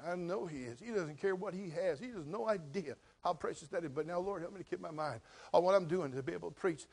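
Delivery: normal talking voice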